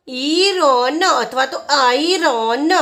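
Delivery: "ઈરોન", then "આઈરોન", each drawn out; alternative pronunciations. Shown as a demonstration. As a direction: slowly contrast "ઈરોન", long ઈ first, with "આઈરોન", opening on આઈ. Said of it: "phonic ઉચ્ચારણ થશે ઈ".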